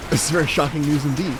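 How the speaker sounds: put-on Elizabethan English; mock Shakespearean-era speech; Elizabethan accent. Shown as a demonstration. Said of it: "let me do an Elizabethan thing".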